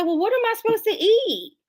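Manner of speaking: high, shocked question; mock panic at the strict list; aghast. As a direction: sound stunned and lost.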